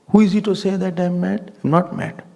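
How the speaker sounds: high-pitched, affronted protest; indignant. Acted. Man denying he is mad, indignant. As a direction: play the insulted man pushing back.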